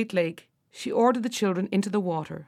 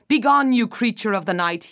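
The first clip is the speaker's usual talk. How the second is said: louder furious command; king yelling at the witch in rage; 5 dB louder than usual. Acted. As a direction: banish her with a raised voice. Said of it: "he yelled".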